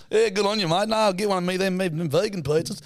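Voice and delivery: blokey Aussie dad. Retold or imitated.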